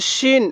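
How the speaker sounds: শিন with a full, thick "sh"; thick shin. Shown as a demonstration. Teacher naming the letter for learners, শিন with thick "sh". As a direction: make শিন start on a heavy "sh", not s. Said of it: "একটু মোটা করে উচ্চারণ করব".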